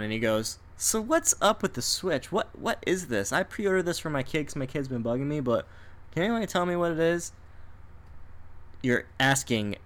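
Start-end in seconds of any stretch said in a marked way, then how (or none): 0.8-7.3 puzzled dad. Retold or imitated. Acts out puzzled dad in line.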